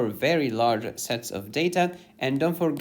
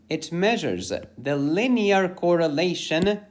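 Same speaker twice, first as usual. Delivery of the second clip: linear pushed up and leaned on; stress on linear; 4 semitones higher than usual. Shown as a demonstration. Teacher stressing linear to viewers. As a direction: lean hard on the word linear. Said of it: "emphasis on the word linear".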